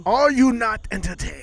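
a hint of wrestling promo; wrestler voice. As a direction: gladiator taunt to the crowd, lightly. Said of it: "Why you keep doing the wrestler voice?".

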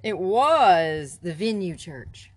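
It was the Venue Church said slowly, leaning on each word; slow emphatic naming of the church; stress on Venue. Shown as a demonstration. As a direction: give Venue Church weight, slow and deliberate. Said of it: "not the Venue, but Venue Church".

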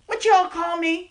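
indignant. Acted. Offended girl confronting rival.

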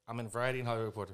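fast, gleeful rush; mock delighted. Mocking the bad reviews with fast gleeful delight. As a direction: hear only the good news and blurt it out. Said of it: "all I'm hearing is".

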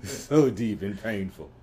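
slow, drawn-out mock agony; mock pained. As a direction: groan it out like it hurts. Mock groan at the joke.

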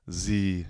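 "Z" in place of English the; French-style z opening on "Z"; French-accented "the". Shown as a demonstration. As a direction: say the as "Z", with a z sound. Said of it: "they say z".

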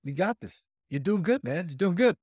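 mild imitation of a cheering coach; encouraging coach. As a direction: pump up your athlete between bouts. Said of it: "the coach is like".

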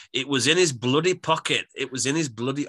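hammed-up attempt at a Geordie accent; lightly put-on, clumsy Geordie accent; bad Geordie accent. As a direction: try a Geordie accent and do it badly. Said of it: "try and do the Geordie accent. That was horrendous".

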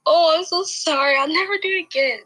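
high, quick retold sorry; pleading apology. Child's retold apology to aunt.

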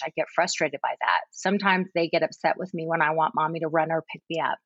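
lightly voiced three-year-old; child's voice. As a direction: read it as the small older sibling, gently. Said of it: "in the older sibling's voice".

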